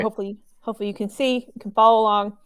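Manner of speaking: talking around a cough drop; words slightly thick from a lozenge; mouth full. Real, not acted. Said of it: "Sorry that I have a cough drop in my mouth".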